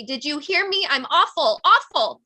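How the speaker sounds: building to a high, loud wail on awful; anguished shout. A narrator's reading. Daughter begging her dying father to hear her, wailing. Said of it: "I want to shout it louder, more violently".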